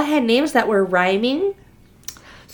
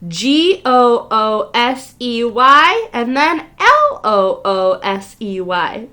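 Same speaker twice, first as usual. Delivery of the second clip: spelling slowly; slower than usual. Shown as a demonstration. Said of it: "Goosey Lucy".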